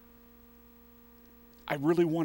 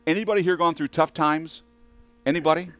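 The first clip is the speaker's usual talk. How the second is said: louder, higher call to the crowd; calling out to the room; 6 semitones higher, 6 dB louder than usual. Real, not acted. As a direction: ask the room, raising your voice. Calling out to the congregation.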